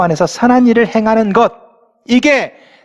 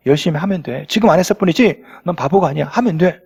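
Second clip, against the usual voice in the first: gentle reassurance; 6 semitones lower than usual. Retold or imitated. Father in story encourages son.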